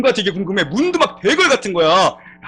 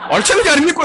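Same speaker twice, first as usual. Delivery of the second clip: put-on Gyeongsang accent, pitched higher and pressed on "알짜배기"; insistent Gyeongsang repeat; 8 semitones higher than usual. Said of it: "경상도 집사님이".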